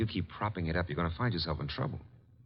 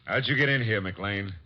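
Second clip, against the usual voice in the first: alarmed demand; 3 semitones higher, slower than usual. Acted. Confronting the armed intruder.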